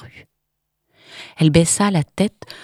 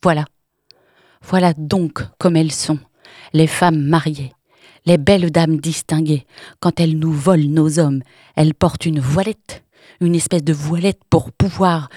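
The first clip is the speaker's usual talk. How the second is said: almost jovial mockery; 3 dB louder than usual. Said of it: "Sa voix s'épanouit, devint presque joviale".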